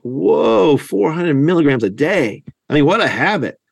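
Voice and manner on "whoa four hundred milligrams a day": mildly astonished retelling, pitched up on "Whoa"; taken aback. Retold or imitated. The other guy reacting to the daily dose, mock astonishment. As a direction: imitate someone reacting in surprise. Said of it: "the other guy is looking like".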